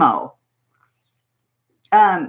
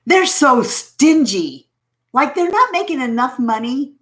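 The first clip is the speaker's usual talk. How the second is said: mock indignant; 4 semitones higher than usual. Real, not acted. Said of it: "complaining about YouTube".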